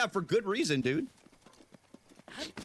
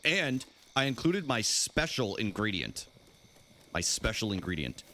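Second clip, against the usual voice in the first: sly; slower than usual. Acted. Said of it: "Don't say it like that".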